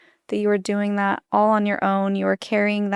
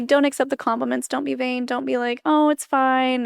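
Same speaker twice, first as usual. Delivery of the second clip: mock scolding lecture; 5 semitones higher than usual. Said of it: "In Mormonism, we're told".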